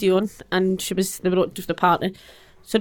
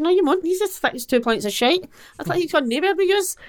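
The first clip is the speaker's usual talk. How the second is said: retold fury; 9 semitones higher than usual. Retelling her fight with the police.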